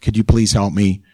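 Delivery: mild, offhand half-hearted prayer; noncommittal, take-it-or-leave-it asking; casual prayer. Acted. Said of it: "kind of a casual prayer".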